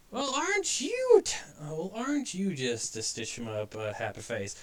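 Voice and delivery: starts very high then slips back down; fawning toon welcome, falling out of the voice; high cartoon porcupine, a faint Southern try. Quincy greets Pin.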